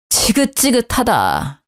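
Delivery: slow, sick-and-tired sigh of a line; slow fed-up sigh; weary disgust. Acted. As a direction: drag it out, fed up. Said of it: "나야말로 지긋지긋하다".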